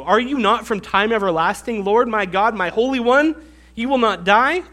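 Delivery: pointed sarcastic prayer. Acted. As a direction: ask what you already know, mockingly. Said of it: "the sarcasm in his voice".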